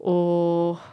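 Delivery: low, soft, deflated "oh"; mock letdown, dropped low and quiet; disappointed. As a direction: imitate an auntie's hopes sinking. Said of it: "I got such disappointed looks".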